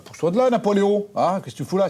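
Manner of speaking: retold yelling at the dog. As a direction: bark it at the dog underfoot. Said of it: "j'ai dit, bah".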